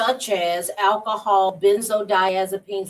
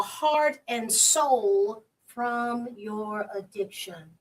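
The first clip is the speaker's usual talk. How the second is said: reading aloud; 3 semitones higher than usual. Shown as a demonstration. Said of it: "I wanna capture this".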